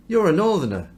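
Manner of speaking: accusing. Acted. Crowd accuses Peter of accent.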